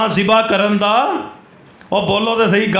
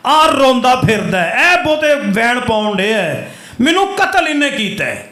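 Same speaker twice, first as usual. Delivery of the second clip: raised, emphatic accusing voice; mock accusation; 3 semitones higher than usual. Risen uncle exposes his weeping nephew as the killer, emphatic accusation. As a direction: point out the culprit with rising force.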